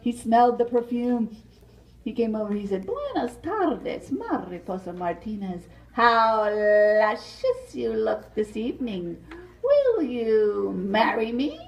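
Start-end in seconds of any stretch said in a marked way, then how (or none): 2.9-11.6 cat suitor voice. Acted. Sly cat suitor, slow.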